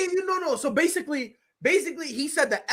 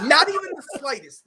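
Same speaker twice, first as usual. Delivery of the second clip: laughing; 5 semitones higher, 4 dB louder than usual. Real, not acted. Laughing echo of a tease.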